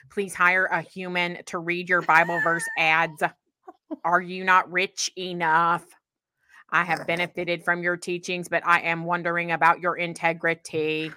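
monotone robot voice. Pretend. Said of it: "read it in the voice of a robot".

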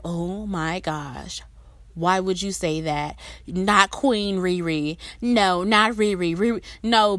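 slow, drawn-out, hammed-up dismay of a pop star's fan; mock shocked fan. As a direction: clutch your pearls over a beloved singer, slowly. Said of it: "y'all gonna be like".

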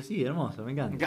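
understated sarcastic approval; feigned delight, barely energised; ironic enthusiasm. Shown as a demonstration. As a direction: praise it while meaning the opposite. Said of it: "Ironía, ¿no? Como diciendo".

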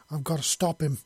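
anxious, pressing resolve; worried urgent. Acted. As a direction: say it with mounting worry. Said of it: "Yelena said".

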